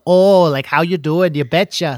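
mock Minnesotan small talk; imitated Midwest accent. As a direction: imitate Swedish-settler Midwestern speech. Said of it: "that's what I heard".

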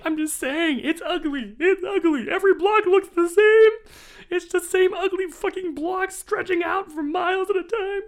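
high, loud, escalating shout; drunken shouting rant. Retold or imitated. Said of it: "my reenactment".

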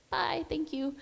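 whispered goodbye; soft whisper. Retold or imitated. Student telling her nurse the goodbye she wishes, whispered. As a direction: breathe the words softly.

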